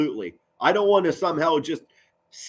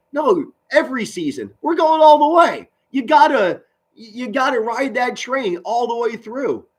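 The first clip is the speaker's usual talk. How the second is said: higher, louder fan rallying cry; fired-up rally; 8 semitones higher, 4 dB louder than usual. Real, not acted. Streamer rallying Irish fans with a loud, higher cry. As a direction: pump up the fans to believe.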